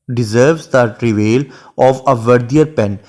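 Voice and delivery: lingering over each word of the sonnet; unhurried classroom recitation of Shakespeare; slow poem recitation. Shown as a demonstration. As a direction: read the verse very slowly and evenly. Quotes next line of poem.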